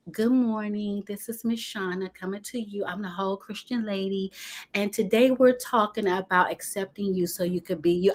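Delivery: a hint of the buttoned-up church lady; prim formal host. Shauna mocking how she thinks she should present, a touch prim. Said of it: "I need to give it to y'all like this".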